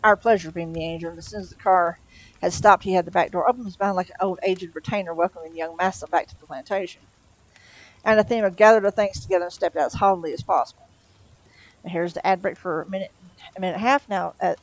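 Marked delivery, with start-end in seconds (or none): 0.0-10.9 reading a novel aloud; story narration. A narrator's reading. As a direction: read it like an audiobook. Narration resumes after chat.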